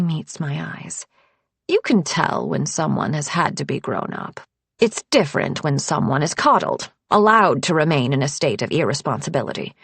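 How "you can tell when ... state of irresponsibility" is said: put-on lower, pointed older woman; sharp tone. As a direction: cut with a pointed edge. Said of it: "Her sharp tone".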